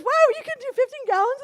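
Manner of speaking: teasing through laughter; laughing. Retold or imitated. Friend teasing about gallons, laughing.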